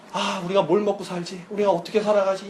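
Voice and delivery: softly voiced fretting; hushed, mildly anxious self-talk; acted worrying. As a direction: worry half to yourself, keeping it soft. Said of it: "걱정하는 게 하나님을".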